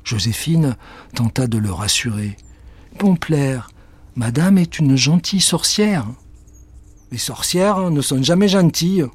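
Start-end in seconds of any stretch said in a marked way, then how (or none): 3.0-9.1 raised, lively dialogue voices; lightly voiced cat and girl; character voices. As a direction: play the girl and the wary cat.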